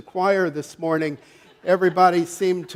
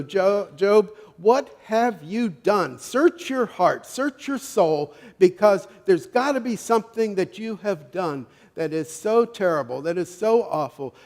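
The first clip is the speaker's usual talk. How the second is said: raised, insistent, drawn-out accusation; accusing friends; 4 semitones higher, 4 dB louder than usual. Retold or imitated. Job's friends urging him to confess, acted insistent accusation. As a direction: press each demand slowly, higher and louder.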